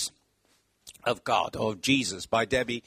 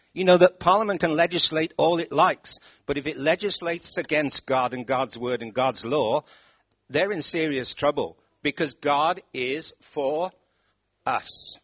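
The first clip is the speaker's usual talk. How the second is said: louder, forceful warning; preaching loud; 6 dB louder than usual. Real, not acted. Preacher warning about Parliament, loud and forceful. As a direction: hammer the point home. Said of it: "preaching at full force".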